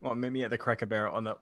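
tentative try at an American country accent; attempted country accent. Shown as a demonstration. Guest put on the spot by podcast hosts, hesitant country accent. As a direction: feel your way into a country accent. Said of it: "Can Josh do a country accent?".

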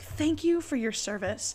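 slow, overly earnest thank you; fake-grave gratitude; mock solemn thanks. Customer thanked with mock solemnity, slow. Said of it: "I was being all funny".

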